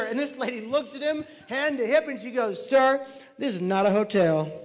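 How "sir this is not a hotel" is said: loud, firm put-down; sassy rebuff. Acted. Nurse rebuffs demanding visitor, loud and firm. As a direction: put him in his place, firmly and loudly. Lady rebuffs him, hand on hip.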